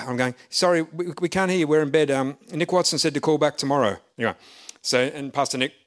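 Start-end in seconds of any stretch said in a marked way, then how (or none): 0.5-4.0 higher and louder, calling over a crackling line; raised voice into a phone. Retold or imitated. Preacher in bed calling into the phone, loud. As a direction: speak up so the caller hears.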